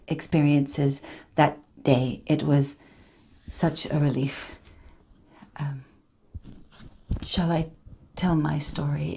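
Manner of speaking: lightly voiced survivor, subdued and halting; Tanya Head. Survivor sharing her story with the group, quiet and tentative. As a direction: confide it softly, with long pauses.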